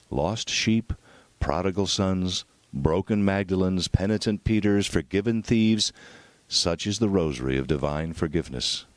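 ordinary delivery

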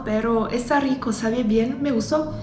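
chewing between words; mouth partly full. Real, not acted. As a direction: sandwich held at lips. Seen 0: Bit sandwich at -4, chews and talks, bites again.

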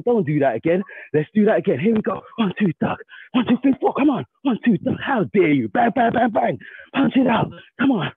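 boxing coach calling combos. Pretend. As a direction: egg the fighter on, punch by punch. Acted taunt to opponent.

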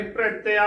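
ਭ੍ਰਿਤਿਆ with the r run into the first consonant; quick half r. Shown as a demonstration. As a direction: say ਭ੍ਰਿਤਿਆ as "pre-teaa". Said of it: "ਅੱਖਰ ਜਲਦੀ ਦੇ ਵਿੱਚ ਬੋਲਿਆ ਜਾਵੇਗਾ".

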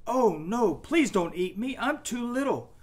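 high, pleading little goat; very small voice. A narrator's reading. Youngest goat begging troll not to eat him, small voice. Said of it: "in a very small voice".

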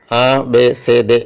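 "ആ, ബേ, സേ, ദേ" as separate German letter names; German alphabet pronunciation. Shown as a demonstration. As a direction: recite "ആ, ബേ, സേ, ദേ" with long vowels. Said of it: "അക്ഷരമാല ഉച്ചരിക്കുമ്പോൾ അങ്ങനെ". ("ആ, ബേ, സേ, ദേ" German അക്ഷരമാലയായി)

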